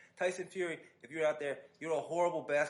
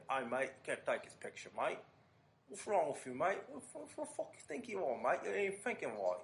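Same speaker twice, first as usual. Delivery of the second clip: imitating British accent. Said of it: "that accent lets me know".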